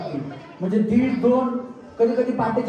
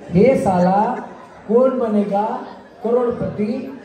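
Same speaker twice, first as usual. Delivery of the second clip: louder, broken into punchy pieces; loud filmy dialogue; much slower than usual. Shown as a demonstration. Host says it once more, louder and in chunks. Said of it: "परत सांगू का?".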